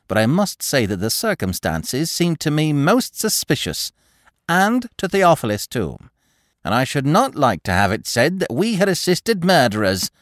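high, starchy lady voice; prim disapproving matron. A narrator's reading. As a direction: lecture the young lord coldly. Narrator voices Mrs Appledore.

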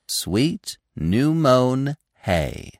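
slow, savoring repetition; calm. A narrator's reading. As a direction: repeat it calmly, drawing out each word. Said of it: "Gobo repeated calmly".

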